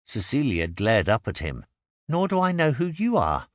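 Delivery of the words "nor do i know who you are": high, sharp retort with fury; angry. A narrator's reading. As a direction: let the anger shake through. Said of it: "Anger vibrated in her voice".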